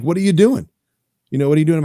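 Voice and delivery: mock alarm at strangers in the house; hammed-up homeowner confronting intruders; startled homeowner.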